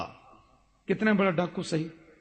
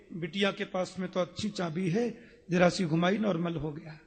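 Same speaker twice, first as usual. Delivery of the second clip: amused hush; 3 semitones lower, 8 dB quieter than usual. Acted. Guru's amused quiet remark.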